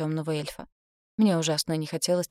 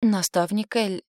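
slow, higher, coaxing; talking to a child; 4 semitones higher, 4 dB louder, slower than usual. Acted. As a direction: speak as to a little child. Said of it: "как с маленьким ребёнком".

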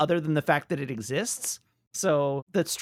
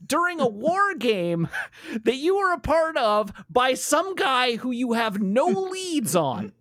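exasperated rant; 9 semitones higher than usual. Retold or imitated. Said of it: "it's like".

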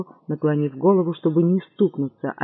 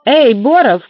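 louder, higher call; shout; 6 semitones higher, 9 dB louder, slower than usual. Acted. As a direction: call to the kitchen. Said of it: "крикнула она".

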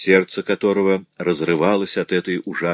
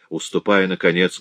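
usual speaking voice

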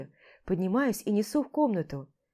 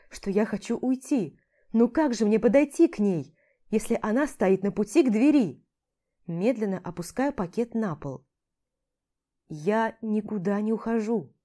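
ordinary delivery

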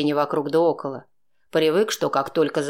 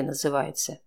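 usual speaking voice

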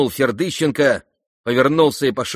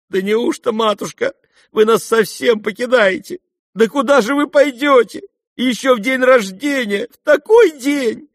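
tearful pleading; 14 semitones higher, 7 dB louder than usual. Acted. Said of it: "спрашивали расплакавшиеся девушки".

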